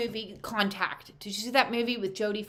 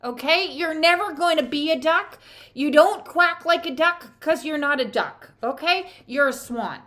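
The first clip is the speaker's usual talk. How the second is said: high, loud scolding; tough-love shout; 5 semitones higher, 5 dB louder than usual. Acted. Telling the ugly duckling off, loud exasperated shout. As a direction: yell the truth at the duckling, exasperated.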